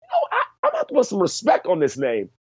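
high, hurried imitation of a convert; put-on reconsidering voice; mock change of heart. Voicing a listener who changes opinion.

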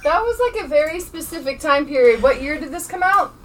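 high-pitched question from off mic; away from mic. Real, not acted. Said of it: "I don't think anybody can hear you".

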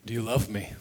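softened, voiced imitation of a whisper; retold whisper. Jesus bending to his ear, softly voiced whisper. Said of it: "he bends down and whispers into my ear".

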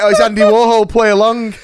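high, loud mock aside; imagined salon staff. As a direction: act out staff humouring a customer. Acting out stylists humouring Warhol.

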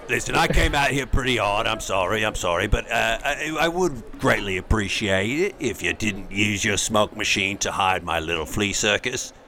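put-on Cockney accent. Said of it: "Bert from Mary Poppins".

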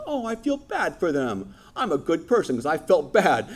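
pat yourself on the back, whiny; mock self-pity. Preacher mocking smug do-nothing believers, whiny and high. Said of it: "we're like".

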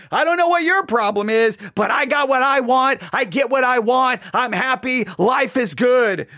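the wicked boasting to the believer, a hammed-up swagger; mock boastful. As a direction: brag like you've got it all. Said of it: "they just walk around going".

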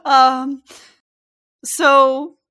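talking through real laughter; can't stop laughing while speaking. Real, not acted. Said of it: "I'm trying to calm down 'cause I was dying".

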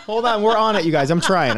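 high-pitched pleading for patience; real flustered tech person under pressure; harried, flustered. Real, not acted. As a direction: plead with them while scrambling to fix it. Harried tech guy answering complaining viewers.

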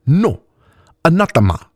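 put-on accent with deep vowels and sharp consonants; Mauxi woman's accent. A narrator's reading. Mauxi woman correcting the drunk elf, accent of deep vowels and sharp consonants. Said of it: "her accent marked by deep vowels and sharp consonants".

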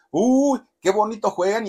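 high, loud sarcastic cheer; mocking crowd jeer. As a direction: jeer it sarcastically like fans in the stands. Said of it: "La gente en las gradas le gritaba".

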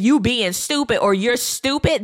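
seriously meant put-down, no joking in it; serious insult. Shown as a demonstration. Partner really demeaning the other, serious insult. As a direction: say it like you really mean it. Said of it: "if you s-, really saying".

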